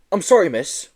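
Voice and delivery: whimper. Acted. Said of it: "whimpered Joe".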